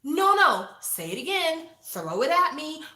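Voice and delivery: high, loud imitated demands; hammed-up coach pushing for a shout; loud, high mock coach voice; mock coach yelling. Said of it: "And he's like".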